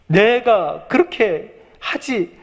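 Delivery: high-pitched, anguished protest, acted out; acted distraught complaint, halting then pouring out; mock wailing plea. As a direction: plead upward as if close to sobbing. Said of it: "막 오열을 하잖아요".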